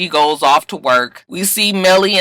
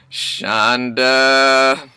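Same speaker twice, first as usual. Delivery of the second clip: pleading outburst; 9 semitones higher, much slower than usual. Real, not acted. Viewer begging Shonda not to do this, laughing and pleading. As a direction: beg the writer not to ruin the show.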